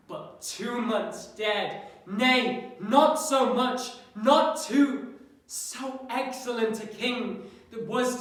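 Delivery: grieving soliloquy, mostly subdued with a brief swell; Hamlet. Acted. Hamlet recalling the dead king's love, subdued grief.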